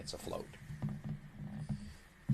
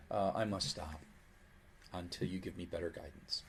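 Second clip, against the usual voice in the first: pleading Python. Acted. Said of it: "Python sort of asking for help".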